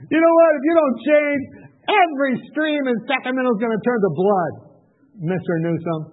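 hammed-up heavenly command; mock divine ultimatum. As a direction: warn like an angry God. God's orders to the governor.

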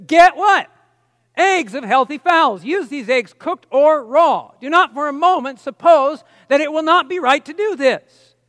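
slow, deliberate words, each one pressed hard; emphatic reading. Retold or imitated. Reading the prophet's counsel to a dying doctor, emphatic and slow. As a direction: read it out as a firm command. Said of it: "that's why she's so emphatic".

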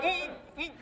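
high muffled "mm" grunts; mock tight-lipped straining to keep words in; stifled, pent-up hums; holding himself back. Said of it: "he catches himself".

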